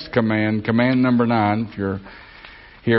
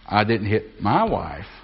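MY leaned on, slow; weight on my, not somebody else's; stress on MY. Shown as a demonstration. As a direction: punch the word my. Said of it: "Or I didn't hit my wife".

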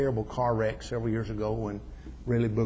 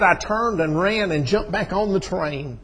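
loud, high, breakneck joy of a retold reunion; excited; 8 semitones higher, 8 dB louder than usual. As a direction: preach his excitement at full voice. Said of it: "I got so excited".

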